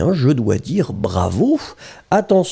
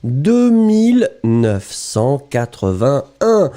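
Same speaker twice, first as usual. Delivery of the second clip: slow teacher explanation; slower than usual. Shown as a demonstration. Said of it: "So we start to combine the two".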